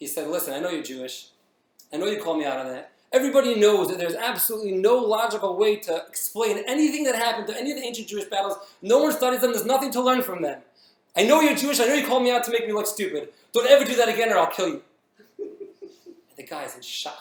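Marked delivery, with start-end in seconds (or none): 3.1-14.8 put-on furious screaming, high and loud. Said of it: "screaming at him like he's enraged".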